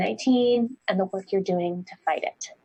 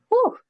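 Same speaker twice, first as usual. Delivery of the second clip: short, higher-pitched exhaled whew; relieved whew; 14 semitones higher, 4 dB louder than usual. Real, not acted. Host finishing a long speaker biography, relieved whew. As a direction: let out a quick "whew" after a mouthful.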